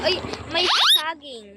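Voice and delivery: surprised. Real, not acted. Spotting banana in game.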